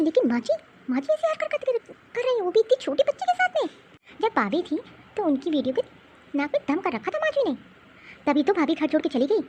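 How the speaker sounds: a wife venting about her mother-in-law; mother complaining to her husband about grandma; worried mother. Acted.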